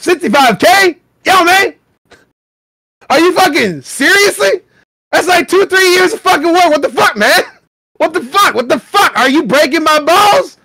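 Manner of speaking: high, loud outraged shouting; all-caps yelling. Shown as a demonstration. Reading an all-caps comment as a high furious shout. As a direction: yell it like the whole post is in capitals. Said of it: "in all caps".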